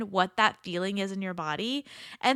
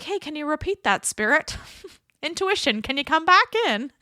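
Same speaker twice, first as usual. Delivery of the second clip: mock plea; 7 semitones higher, 5 dB louder than usual. Pleading with intuition to repeat.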